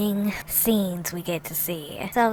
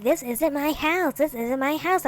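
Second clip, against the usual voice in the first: mock protest; 6 semitones higher than usual. Mimics Joey's repeated whiny denial.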